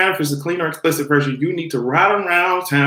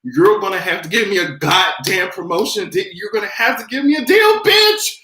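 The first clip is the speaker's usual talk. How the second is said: mock demanding diva; 4 semitones higher than usual. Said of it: "I'll be saying".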